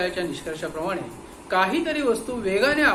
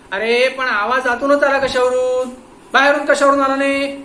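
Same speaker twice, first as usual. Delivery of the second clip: pressing; 5 semitones higher, 9 dB louder than usual. Acted. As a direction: drag it out, insisting. Inspector interrogating the watchman.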